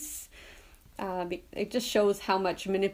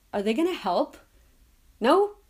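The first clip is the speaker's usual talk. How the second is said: higher and louder, a blunt warrior's brush-off; frank defiance; 7 semitones higher, 6 dB louder than usual. Retold or imitated. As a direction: Conan dismissing the gods, blunt and loud. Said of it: "really frank".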